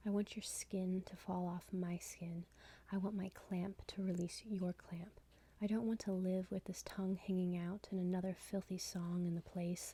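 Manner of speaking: measured, hushed poetry recital; poem reading. Acted. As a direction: intimate poem reading with even cadence. Reads third poem aloud.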